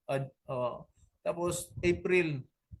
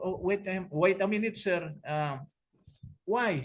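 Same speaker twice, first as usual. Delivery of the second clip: a raised, startled wait a minute; surprised reply; 5 semitones higher than usual. Retold or imitated. Answering the pastor on the phone, startled. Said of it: "Sabi ko".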